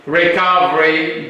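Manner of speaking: normal talking voice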